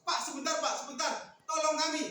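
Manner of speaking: urgent acted hail; calling for help. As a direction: plead for him to stop. Men beg passer-by for help.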